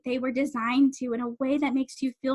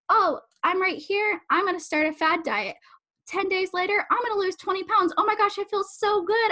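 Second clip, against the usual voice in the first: higher-pitched mock enthusiasm; eager dieter; 6 semitones higher than usual. Coach acting out someone starting a fad diet, excited. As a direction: play a dieter thrilled with early results.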